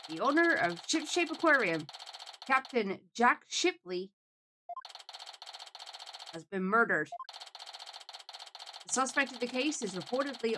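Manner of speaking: measured TV anchor delivery; lightly played breaking-news reader. Anchor announcing the aquarium owner's murder, measured news read.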